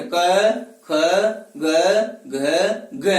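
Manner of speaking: क, ख, ग, घ recited singly from the throat, pausing after each; isolated velar letters क, ख, ग, घ, evenly spaced; throat consonants demo. Shown as a demonstration. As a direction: sound out क, ख, ग, घ one by one from the back of the mouth. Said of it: "कंठ से".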